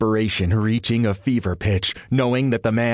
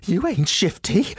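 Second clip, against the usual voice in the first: higher, slightly trembling woman; tremor in her voice; 10 semitones higher than usual. A narrator's reading. Frightened woman realizing stranger at door, higher mild tremor. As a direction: accuse him with a touch of fear. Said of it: "a tremor in her voice".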